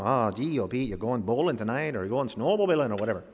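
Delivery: put-on a light, playful Michigan accent, a bit quick. Preacher jokingly imitating a Michigander in a Michigan accent. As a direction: lightly imitate a Michigan local chatting about bowling. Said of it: "accents in Minnesota and Michigan".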